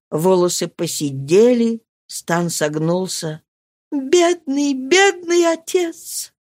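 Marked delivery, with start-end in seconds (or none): 3.9-6.3 high, slow lament; pitying. Acted. Marie seeing her aged father: slow sorrowful lament. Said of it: "сказала Мари".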